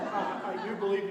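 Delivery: talking through a laugh. Real, not acted. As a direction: laugh while speaking. Laughing while speaking.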